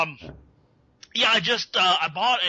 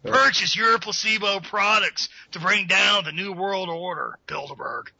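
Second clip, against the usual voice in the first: Alex Jones ad voice. Acted. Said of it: "Alex Jones marketing voice".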